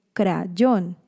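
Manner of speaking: "crayón" slowly split as cra, yón; syllable by syllable. Shown as a demonstration. Teacher showing a consonant-cluster syllable, "crayón" split cra, yón. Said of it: "Las sílabas más problemáticas".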